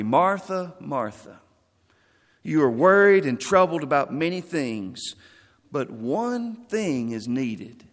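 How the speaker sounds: calm her down, but mean it; gently but firmly. Acted. Jesus to the frustrated Martha, gently but firmly. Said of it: "he said it probably gently, but firmly".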